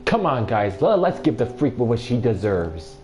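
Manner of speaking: calling out to his gang, loud and gloating; rally the gang for a beating; loud bully call. Acted. Bully calls his friends to beat the girl, loud and gloating.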